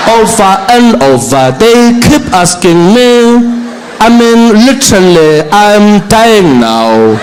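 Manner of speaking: slow, bored whining with lots of sass; sassy eye-rolling Zuma. Retold or imitated. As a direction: drag it out like a fed-up diva. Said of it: "And he's like".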